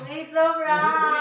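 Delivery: slow sing-song It's a prank; prank reveal announcement. Shown as a demonstration. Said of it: "Na-miss ko sabihin yung".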